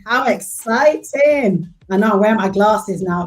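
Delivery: high, loud and slow; stepping on stage and beaming at the crowd; thrilled greeting. Real, not acted. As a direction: stretch out the delight. Guest greets audience, thrilled.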